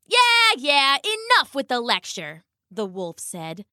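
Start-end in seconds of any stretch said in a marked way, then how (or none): 0.1-2.4 high, bored brush-off; dismissive. Acted. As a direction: wave off the lecture. Wolf brushing off queen.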